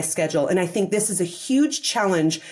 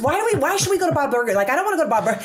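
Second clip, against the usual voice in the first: higher, faster exasperated complaint, half-playful; cranky mock refusal; 4 semitones higher, faster than usual. Stressed partner turning down dinner options, mock exasperated. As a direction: play a fed-up partner who's had enough of choosing.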